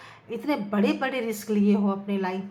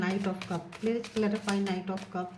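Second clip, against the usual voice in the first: repetitive tarot chant, softening as it goes; murmured card invocation; 2 semitones lower, 5 dB quieter, much slower than usual. Real, not acted. Tarot reader asking the cards for clarity, murmured invocation. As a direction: intone it evenly, trailing into a murmur.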